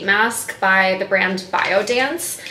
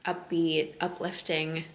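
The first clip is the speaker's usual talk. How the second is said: hushed, softer and lower voice; quiet at night; 3 semitones lower, 8 dB quieter than usual. Real, not acted. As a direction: speak softly, just out of bed. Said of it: "I kind of have to whisper because Taylor's still sleeping".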